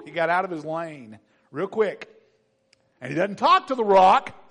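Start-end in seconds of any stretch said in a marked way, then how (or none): none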